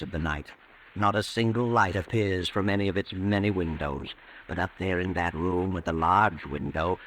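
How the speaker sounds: measured, brooding scene setting; radio drama narrator building dread; suspense narration. Acted.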